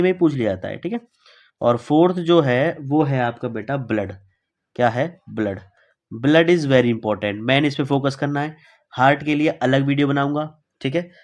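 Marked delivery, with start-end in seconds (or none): 6.3-7.3 Blood is very important, said very slowly and a bit louder; slow emphasis. Shown as a demonstration. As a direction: spell out Blood is very important word by word. Teacher stresses key topic. (बहुत धीरे, ज़ोर देकर)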